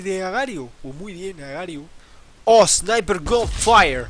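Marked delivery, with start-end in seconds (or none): 2.4-4.1 slow, drawn-out announcer call, louder; meme sound-effect call. Pretend. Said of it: "El efecto de sonido". (grito de efecto de sonido meme, lento y fuerte)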